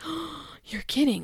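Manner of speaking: gasped, hushed fake surprise; mock shock. Pranked spouse acting for the camera, mock shocked. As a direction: feign shock at an obvious prank. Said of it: "is so shocked".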